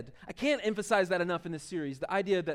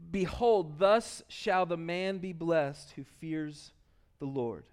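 slow, measured scripture reading. Acted. Preacher reading a psalm to the congregation, slow and measured. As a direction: read it slowly, with deliberate pauses between phrases.

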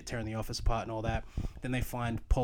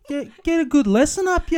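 high, very loud broad Australian; very Australian accent; 12 dB louder than usual. Shown as a demonstration. Co-host shows how to sound very Australian, loud and broad. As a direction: belt it out in thick Aussie. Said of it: "you can get very Australian".

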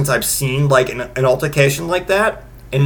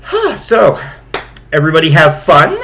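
dry sarcastic; 2 semitones higher, 4 dB louder than usual. Retold or imitated. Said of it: "and I'm like".

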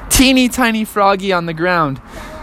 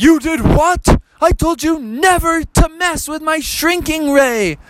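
mock stern dad; 11 semitones higher, slower than usual. Dad scolding son on phone.

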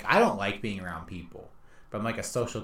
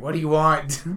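put-on grumpy teen; 7 semitones higher, 9 dB louder than usual. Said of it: "And he's like".

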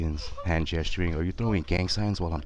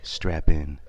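announcer voice; 3 semitones lower than usual. Pretend. Mock announcer podcast intro.

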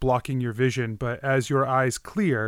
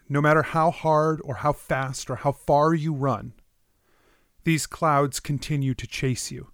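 measured, dramatic dream narration; game master narration. Acted.

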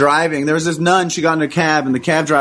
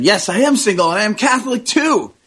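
excited; 6 semitones higher than usual. Retold or imitated. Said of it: "got very excited and said".

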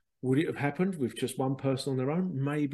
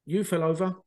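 tutor telling table off. Retold or imitated. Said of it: "tutor just walked off going".

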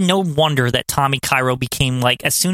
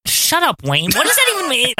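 incredulous; 8 semitones higher than usual. Real, not acted. Reacting to Stately Wayne's line.

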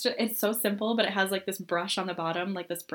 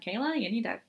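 mock scolding; 9 semitones higher than usual. Friend scolding Kayla in retold quote.

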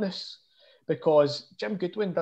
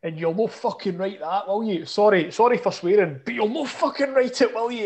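mock furious Scottish rant, higher; imitating angry manager; 4 semitones higher than usual. Imitating the furious manager ranting at reporters, mock anger. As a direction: ham up a raging manager. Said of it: "he was going, mental".

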